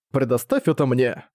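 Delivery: slow, even robotic words. Acted. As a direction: speak it slowly like a robot. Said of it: "сказала она голосом робота". (медленный голос робота)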